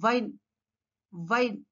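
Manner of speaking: "వైన్" as vine, teeth on bottom lip; V sound. Shown as a demonstration. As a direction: start "వైన్" with V. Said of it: "just inside the bottom lip".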